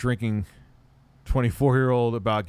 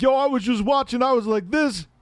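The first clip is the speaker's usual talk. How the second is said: much higher voice; hammed-up retelling of the rapper's words; imitating Cam; 13 semitones higher, 5 dB louder than usual. Streamer retelling rapper's interview story to chat, in a high mock voice. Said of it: "he was like".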